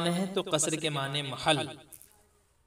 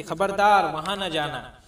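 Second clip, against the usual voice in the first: a slow, louder "खबरदार" from a father; stern father's warning; 5 dB louder, slower than usual. Shown as a demonstration. Father warning his child to stay away, stern and slow. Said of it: "आपके वालिद साहब कह रहे हैं कि".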